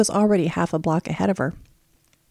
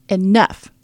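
yelled; 6 dB louder than usual. Acted. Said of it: "Thomas yelled".

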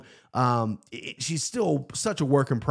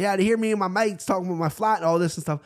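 quick, higher mock New Zealand accent; imitated New Zealand accent; 5 semitones higher, faster than usual. Friend keeping up the act, mock New Zealand accent. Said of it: "he just kept it up and he's talking".

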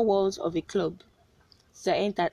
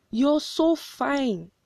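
mock yell; 6 semitones higher, much slower than usual. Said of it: "I literally just yelled".

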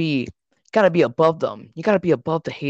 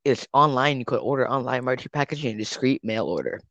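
cheesy ad read. Pretend. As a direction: hype it like a late-night commercial. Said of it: "another ad".

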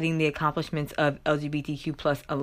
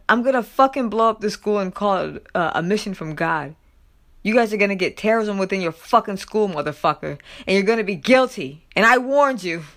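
mock angry warning, building louder and higher at the end; acted threatening rant; 4 semitones higher, 4 dB louder than usual. Podcaster quoting caller's terrorism threat, mock angry rant. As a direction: imitate a caller's tirade with moderate heat. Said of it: "she kept going".

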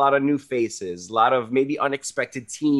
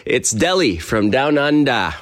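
put-on a light, half-hearted stab at an Aussie accent; mock Australian accent, barely there; bad Australian accent; 3 semitones higher, 3 dB louder than usual. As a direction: toss off a jokey Australian twang. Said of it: "That was a terrible accent".

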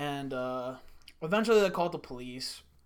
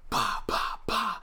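gunshot noises; 7 semitones higher, slower than usual. Retold or imitated. Imitating gunshots.

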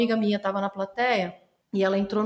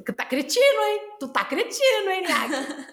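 mock accusing; 8 semitones higher, slower than usual. Real, not acted. Teasing the friend Niak.

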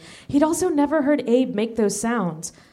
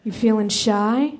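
teasing. Acted. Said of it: "he teased".

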